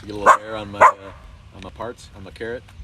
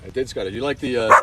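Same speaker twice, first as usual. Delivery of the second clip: usual speaking voice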